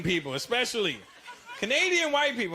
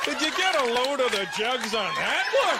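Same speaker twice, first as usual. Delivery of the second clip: put-on bobbling bro in a Canadian accent; 7 semitones higher than usual. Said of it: "they'll go".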